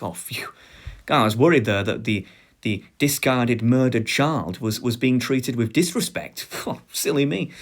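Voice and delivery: sarcastic relief. Acted. Sarcastic relief after grim answer.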